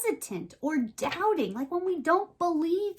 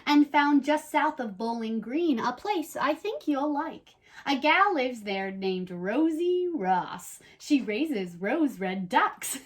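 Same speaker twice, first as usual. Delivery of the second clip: storybook read-aloud, lively and even; reading to children; slower than usual. Acted. Host reads the rhyming book to young viewers, in a storybook voice. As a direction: tell it like a bedtime rhyme.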